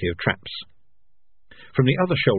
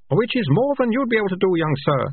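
rat catcher; 12 semitones higher, 3 dB louder than usual. A narrator's reading.

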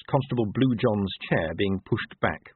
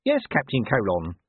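pompous sergeant; 4 semitones higher, 3 dB louder than usual. Acted. Colon's pompous self-important voice.

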